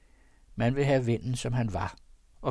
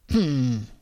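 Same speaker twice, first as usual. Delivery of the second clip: calm hum; 2 semitones higher, 6 dB louder than usual. Acted. Pastor hums as he sees the stranger, a calm hum. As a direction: hum it out calmly. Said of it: "brummede han".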